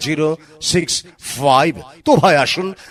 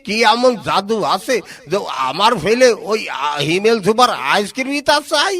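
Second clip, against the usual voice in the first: put-on old man voice; 4 semitones higher than usual. Skit old grandpa voice.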